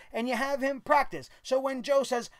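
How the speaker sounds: ordinary delivery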